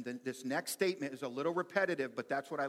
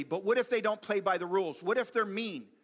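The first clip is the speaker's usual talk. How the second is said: higher, louder imitated protest; worried objector; 6 semitones higher, 8 dB louder than usual. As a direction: voice an anxious listener's objection, pitched up and loud. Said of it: "People always ask me".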